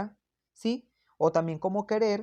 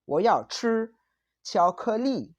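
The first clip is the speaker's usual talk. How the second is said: put-on childish whining; slower than usual. Teacher imitating a child demanding chocolate, lightly whiny. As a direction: ask for 巧克力 like a spoiled kid. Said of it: "caprichoso o infantil. Los niños lo dicen mucho".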